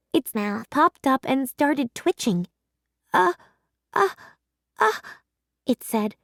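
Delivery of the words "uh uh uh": pre-sneeze stutter. Acted. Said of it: "squeezing its eyes shut".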